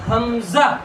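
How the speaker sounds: "حمزہ" with a held m and firm "za"; firm teacher's model of "حمزہ", ending crisply; forceful articulation. Shown as a demonstration. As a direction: put effort into each syllable of "حمزہ". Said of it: "جان لگاؤ".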